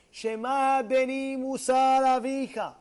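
slow, sustained recitation on a held tone; drawn-out sacred reading; solemn verse recital. Real, not acted. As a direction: intone it like an opening verse. Chants the letter's opening verse.

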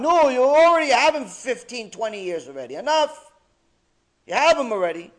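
loud, high impatient shout; screaming out. Acted. Gehenom scolding Kaf Akela, loud impatient shout. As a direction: shout that it's had enough. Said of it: "Gehenom is screaming out".

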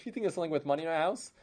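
fast, bitter half-laughing question; bitter disbelief. Acted. Wife scoffs bitterly at Chaim's hope, fast and sour. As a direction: scoff at the idea, quickly. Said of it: "like a sad laugh".

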